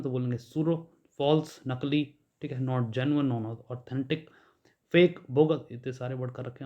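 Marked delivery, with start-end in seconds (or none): 0.4-0.8 सूडो said soo-do with no p sound; सूडो, the p dropped entirely; silent p in pseudo. Shown as a demonstration. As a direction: say सूडो beginning on a clean s. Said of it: "पी silent है इसमें".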